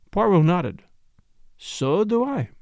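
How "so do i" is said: thoughtful. A narrator's reading. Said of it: "he said thoughtfully".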